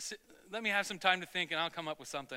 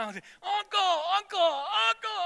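Scott Farkas bully; 12 semitones higher, 7 dB louder than usual. Retold or imitated. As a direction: drag out each uncle like a jeering bully. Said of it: "Scott Farkas coming out".

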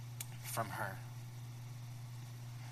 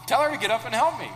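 mild complaint; 5 semitones higher, 7 dB louder, faster than usual. Acted. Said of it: "That was my translation".

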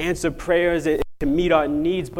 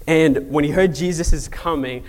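ordinary talk, nothing marked

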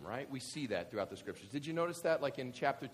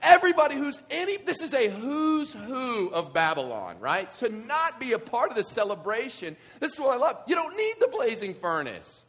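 excited; 10 semitones higher, 11 dB louder than usual. Real, not acted. Excited preaching.

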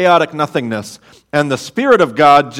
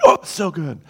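put-on childlike delight. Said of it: "God's like a kid in Toys R Us".

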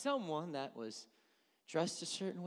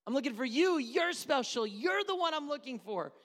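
seductive flatterer; 12 semitones higher, 11 dB louder than usual. Retold or imitated. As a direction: lay it on thick like a seducer. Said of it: "in that verse she said you".

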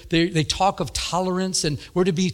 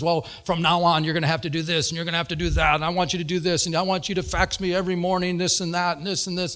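retold rapid-fire list of demands; mock upset tirade; 2 semitones higher, faster than usual. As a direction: rattle off demands, imitating an upset caller. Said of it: "She's blowing up at me".

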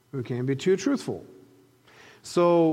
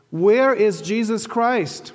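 slow, raised question; first asking; 5 semitones higher, 5 dB louder, slower than usual. Retold or imitated. Muhammad asking the tour guide, slow and raised. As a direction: ask it slowly and a bit loud, expecting an answer. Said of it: "So Muhammad says more loudly".

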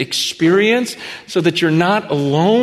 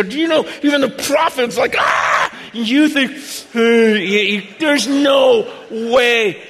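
shouting that even prophets were undone; excited shout; 5 semitones higher, slower than usual. Retold or imitated. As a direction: fire it at him like a preacher. Preaching at the addict.

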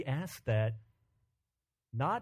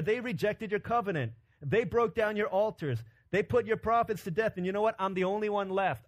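raised, aggrieved complaint; insistent self-justifying grievance; indignant protest; 3 semitones higher than usual. Acted. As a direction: plead your case, pitched high. Elijah protests his case to God.

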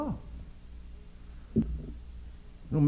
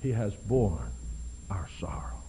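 low, then fading to a whisper on our sorrow; whispered close; 8 semitones lower, 8 dB quieter than usual. Real, not acted. Preacher closes his point on Christ's grief in a whisper. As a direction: let it sink to a whisper. Sermon's tender climax.

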